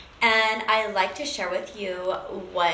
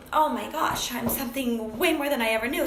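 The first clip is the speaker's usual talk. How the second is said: exhilarated; 3 semitones higher than usual. Retold or imitated. Woman realises she is worth more, retold with exhilaration. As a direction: relive the thrill of realising it. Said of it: "like, exhilarating".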